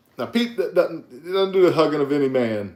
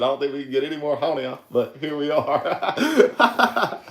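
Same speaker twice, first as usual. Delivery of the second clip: quote breaking into laughter. Retold or imitated. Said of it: "He said".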